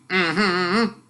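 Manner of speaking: short uninterested grunt; lazy mm-hmm of a man not listening; bored grunt. Acted. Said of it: "grunted to show he was listening".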